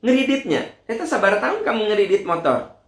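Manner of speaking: pry into the loan shamelessly; nosy gossip. Retold or imitated. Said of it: "Ada nggak yang saya contohkan begini?". (suara kepo tinggi dan keras)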